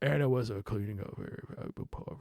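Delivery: put-on gruff mumble. Speaker imitates how a man reads his notes aloud, imitating a gruff mumble. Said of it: "trails into like just mumbling".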